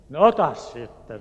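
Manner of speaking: loud, fed-up permission; the guard giving in with a loud, fed-up "take them then"; exasperated guard. Retold or imitated.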